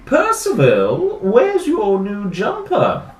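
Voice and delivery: high, loud, slowly drawn-out demand; stern questioning mum. Acted. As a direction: call the child to account. Mum confronts Percy in story.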